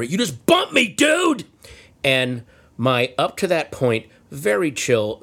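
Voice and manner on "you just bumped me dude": high-pitched mock yell of outrage; retold scream. Moped rider yelling at the driver who bumped him, mock scream. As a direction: imitate an angry yell, pitched way up. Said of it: "screams at my driver".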